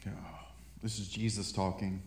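breathy whispered aside. Real, not acted. Pastor whispering an aside to the congregation before reading. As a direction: drop to a whisper before the verse.

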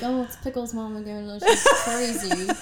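laughing while imitating exasperated staff; amused mock quote.

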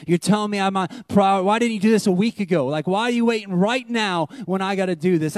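mild mock exasperation; frustrated complaint. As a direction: argue back at God, exasperated. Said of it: "frustrated and mad".

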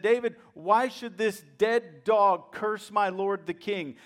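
emphatic, indignant imitation of a loyal soldier; retold anger. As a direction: act out outrage on the king's behalf. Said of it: "angry these guys were".

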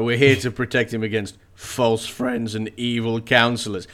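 pointed, mock-formal declaration; passive-aggressive lords. Lords sending Baelish a veiled accusation, passive-aggressive. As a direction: lay mock weight on the accusation. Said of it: "passive-aggressive kind of".

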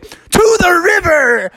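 high, slow crowd proclamation; rallying cry. Acted. All the animals sending loser Smee off, rallying shout. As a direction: call it out like a mob leader. Whole crowd calling out a sentence.

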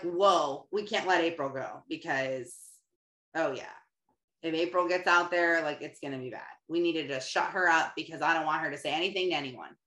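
a lightly voiced devil plotting in private; scheming devil. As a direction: conspire like a nervous devil.

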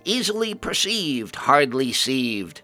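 a crazed cry of nonsense rhyme; shouted mad rhyme, stretched out; mad ghoul shout. Acted. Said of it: "cackled again and shouted".

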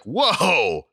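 high, loud, amazed gasp of a word; awed whoa. Retold or imitated. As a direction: react like your mind is blown. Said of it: "I'd be like".

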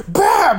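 high, punchy exclamation; mock slap noise. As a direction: punch out the sound of a smack. Imitates the slap.

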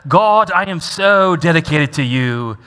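put-on British accent, slowing at the end; mock British accent. Preacher mimicking Paul the Pharisee praying, mock British accent. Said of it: "he probably spoke with a British accent".

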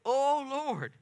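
a prophet venting at God, loud and high-pitched; Jonah's angry prayer. Retold or imitated. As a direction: cry out to the Lord in frustration. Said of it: "And he says".

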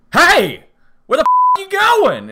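very high, loud, rushed shouting; furious yell. Retold or imitated. Teller screaming at the guy who hit his truck, furious. Teller yells at stranger in story.

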